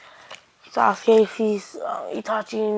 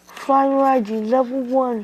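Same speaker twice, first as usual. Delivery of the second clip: loud, higher-pitched jutsu call; drawn-out, raised battle callout; attack call; 3 semitones higher, 5 dB louder than usual. Acted. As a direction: call out the move like an anime fighter. Naruto calls out attack.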